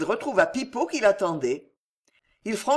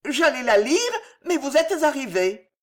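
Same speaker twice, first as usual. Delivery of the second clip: high, louder confession; sheepish old woman; 7 semitones higher, 3 dB louder than usual. A narrator's reading. Old woman confesses she meant to read it, high and flustered. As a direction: admit it in a raised, flustered voice.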